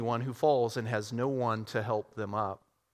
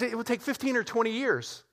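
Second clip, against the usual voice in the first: businessman voice; 9 semitones higher than usual. Acted. Businessman answers.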